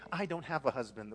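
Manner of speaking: "I" leaned on before the rest drops away; pointed stress on the word "I". Acted. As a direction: put the emphasis on "I". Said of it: "Emphasis added by me".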